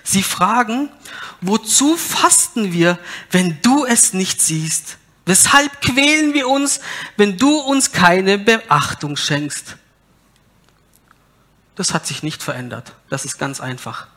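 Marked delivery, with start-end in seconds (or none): 1.4-9.8 whiny complaint. Acted. People complain to God.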